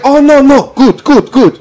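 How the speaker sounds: high, light voice of a cheery dentist; high breezy dentist brushing off the patient's pain; mimicking the dentist. Voicing the dentist.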